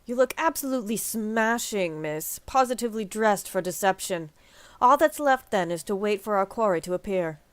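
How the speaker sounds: lightly voiced, formal British-ish ally; hint of a sly knight; Thancred voice. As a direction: read it like a noble schemer. Voicing Thancred again.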